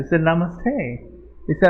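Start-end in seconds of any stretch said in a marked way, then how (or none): 0.2-0.7 put-on a light American accent on "Namaste"; "Namaste" said the American way, ending on a rise; imitating an American saying "Namaste". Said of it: "With an American accent".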